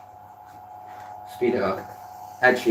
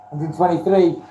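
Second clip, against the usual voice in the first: auctioneer call; 3 semitones higher than usual. Pretend. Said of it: "do I sound like an auctioneer".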